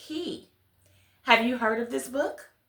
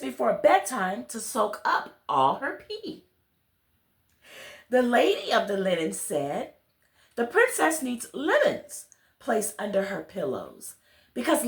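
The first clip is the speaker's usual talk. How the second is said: put-on gentle storybook reading to children; story narration. A narrator's reading. Reader telling children a bedtime story, gentle storybook narration. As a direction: read it like a bedtime tale to little listeners. Reads picture book aloud.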